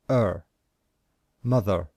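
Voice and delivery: teacher modelling short vowels one by one; model vowel drill. Shown as a demonstration. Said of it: "This sound is".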